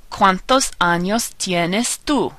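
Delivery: slow, measured Spanish model sentence; slow teacher's rhyme for learners to copy; pronunciation demo. Shown as a demonstration. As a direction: spell out each vowel sound slowly. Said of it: "help you remember how to pronounce the vowels".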